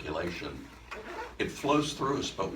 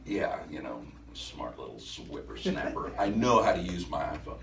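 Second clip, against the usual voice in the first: attitude; 2 semitones lower than usual. Retold or imitated. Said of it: "I did cop a little attitude".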